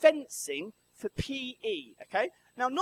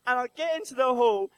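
ordinary delivery

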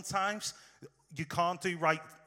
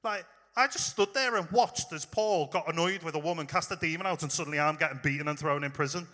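frustrated. Pretend. Silas beaten and jailed, complaining it's unfair, mildly indignant. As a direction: plead your innocence in mild exasperation. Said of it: "Silas is a bit frustrated as well".

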